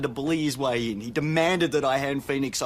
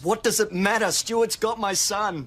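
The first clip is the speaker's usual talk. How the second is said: agitated insistence; 5 semitones higher than usual. Acted. Father insists his son was taken.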